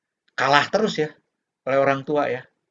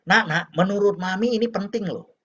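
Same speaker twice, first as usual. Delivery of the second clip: lightly voiced insistent mom, pitched higher; lecturing mother; 5 semitones higher than usual. Mom telling her child what matters, insistent. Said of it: "ini Mami nih".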